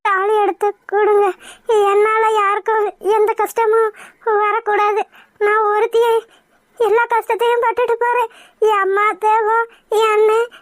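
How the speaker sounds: crying, giving in; tearful resignation. Acted. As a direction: say it through tears, resigned. Bride gives in, sacrificing herself.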